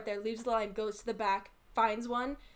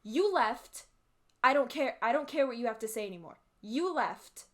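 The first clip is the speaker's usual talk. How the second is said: imitating angry lady; 3 semitones higher, 4 dB louder than usual. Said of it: "And the lady goes".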